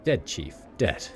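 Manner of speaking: lightly voiced Sigil street accent; rat catcher's accent. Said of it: "it's all written in their accent".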